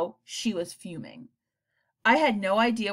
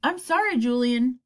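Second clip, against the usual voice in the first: gently; 6 semitones higher, 6 dB louder than usual. A narrator's reading. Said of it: "Doctor Jansen said gently".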